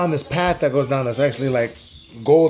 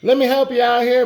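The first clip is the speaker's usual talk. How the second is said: little monster voice; 11 semitones higher than usual. Acted. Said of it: "wanted to help him out and be like".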